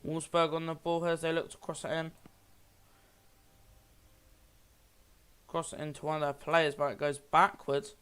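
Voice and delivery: live match commentary, steady pace; play-by-play commentary. Acted. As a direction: call the football game as it happens. Live football game commentary.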